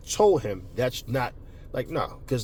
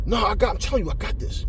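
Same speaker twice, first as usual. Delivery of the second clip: higher-pitched, insistent pleading; insistent protest; 6 semitones higher than usual. Retold or imitated. Partner insisting to his friend he's got this, higher protest. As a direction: protest that you can handle it.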